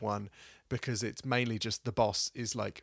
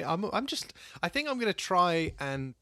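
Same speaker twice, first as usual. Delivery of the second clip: mic knocked mid-sentence; mic bump; 7 semitones higher than usual. Real, not acted. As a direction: thud on the microphone. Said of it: "I just bumped the mic".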